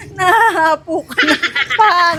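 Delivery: giggling tease; laughing. Real, not acted. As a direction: laugh through the words. Laughing at out-of-breath guard.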